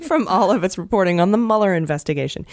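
put-on a lightly done Washington Post newsreader accent. Host repeats the line for cohosts, mock Washington Post accent. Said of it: "It's like a Washington Post accent".

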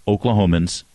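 OKlahomans with stress on the first syllable; mock local stress on Oklahomans. Shown as a demonstration. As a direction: lean on the OK of Oklahomans. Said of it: "put the emphasis on the first syllable".

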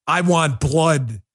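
slow, low mock-menacing quote; mock vampire menace. Host mocking a supposed agitator's line, in mock vampire menace. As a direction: intone it slowly, lightly sinister and low. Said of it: "what are you, freaking Nosferatu?".

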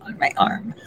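hissed under her breath at the phone; annoyed whisper. Real, not acted. Irritated at her phone's voice assistant, annoyed whisper. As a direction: whisper a fed-up brush-off, barely voiced.

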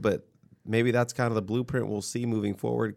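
usual speaking voice

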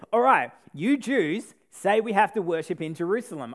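lightly sassy retort. Retold or imitated. Preacher voicing the sassy woman answering Jesus, lightly sassy. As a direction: toss it back with a little sass. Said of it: "this woman was super sassy".

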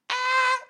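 sudden startled shriek; grito de susto. Retold or imitated. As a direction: scream of fright, high and loud. Susto al ver al japonés. (grito agudo de susto)

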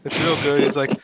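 usual speaking voice

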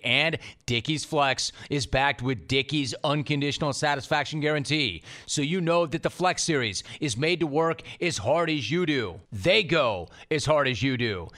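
fast, punchy pitchman read. Acted. Host reading a Dickies sponsor spot, upbeat ad voice. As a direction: sell the workwear with easy confidence.

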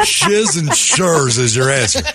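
words through laughter; laughing. Real, not acted. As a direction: laugh while saying it. Host laughing at answer.

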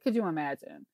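could you imagine, repeated low and soft; muttered repeat. Real, not acted. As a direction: drop it low and quiet.

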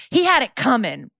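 Chicago-style sultry defiance; hammed-up showgirl declaration; cell block tango. Suspect defends stabbing her pimp like a showgirl, defiant. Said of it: "Very cell block tango from Chicago".

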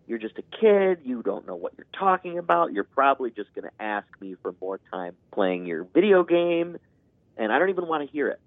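dismissive parent. Retold or imitated. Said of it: "those negations of".

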